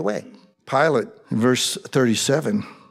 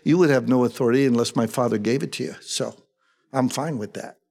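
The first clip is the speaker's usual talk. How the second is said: unruffled, matter-of-fact reply; calm; 3 semitones lower than usual. Retold or imitated. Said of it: "Jesus calmly says".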